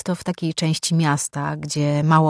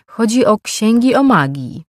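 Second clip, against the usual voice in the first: raised, higher shopkeeper's question; higher-pitched voice; 6 semitones higher, 6 dB louder than usual. A narrator's reading. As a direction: ask it pitched up above your usual voice. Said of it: "głosem nieco wyższym niż zwykle, ale też cichszym".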